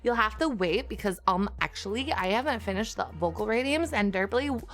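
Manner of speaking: put-on Valley Girl reassuring chat. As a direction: keep up the Valley Girl lilt. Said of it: "gonna have to do a Valley Girl".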